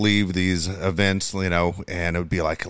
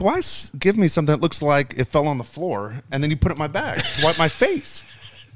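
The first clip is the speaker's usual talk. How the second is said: laughing through the quote; 5 semitones higher than usual. Retold or imitated. Mock-complaint quote while laughing.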